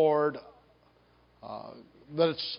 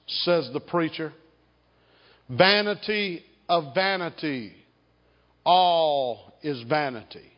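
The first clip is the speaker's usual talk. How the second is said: measured, solemn preaching read with lingering pauses; scripture reading. Acted. Reads Ecclesiastes aloud to congregation.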